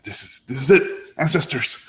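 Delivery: high, slow mock prayer to the ancestors; playful summoning plea; mock invocation. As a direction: call on the spirits half-jokingly. Summoning ancestors before the pitch.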